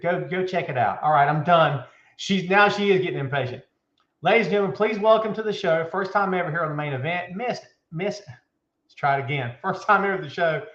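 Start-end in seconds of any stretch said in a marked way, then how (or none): 4.2-8.2 grand announcer build-up; ring announcer intro. Acted. Host bringing his guest on, in a mild announcer voice. 9.6-10.6 grand announcer build-up; ring announcer intro. Acted. Host bringing his guest on, in a mild announcer voice.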